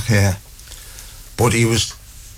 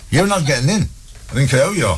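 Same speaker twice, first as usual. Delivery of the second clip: higher, firm doorman's refusal; 4 semitones higher, faster than usual. Acted. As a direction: turn them away at the door. Acts the doorman refusing entry.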